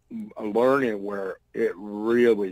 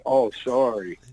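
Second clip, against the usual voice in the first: mock innocent apology; 5 dB louder than usual. Mock apology to Bill Watts.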